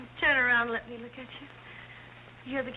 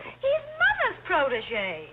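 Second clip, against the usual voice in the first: slow emphasis; 4 semitones higher, 4 dB louder, much slower than usual. Acted.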